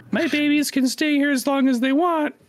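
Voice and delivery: high cracking mom voice; squeaky breaking voice. Retold or imitated. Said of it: "my voice just cracked there".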